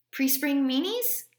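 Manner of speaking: father teasing his grumpy son. A narrator's reading. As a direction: poke fun at the grump.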